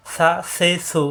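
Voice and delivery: সা, সে, সু as soft th with short vowels; tongue to teeth on সা, সে, সু, no lingering; soft, short syllables. Shown as a demonstration. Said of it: "দাঁতের আগে লাগিয়ে দ্রুত উচ্চারণ".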